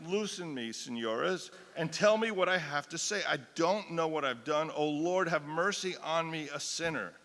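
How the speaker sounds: loud begging plea; desperate cry. Acted. A tortured woman begging the inquisitors, loud desperate plea. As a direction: cry out to be released. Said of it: "She cried".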